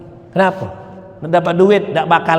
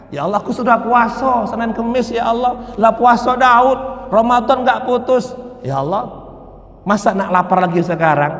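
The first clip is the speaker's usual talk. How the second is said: pleading prayer; 5 semitones higher than usual. Retold or imitated. Servant pleads to God.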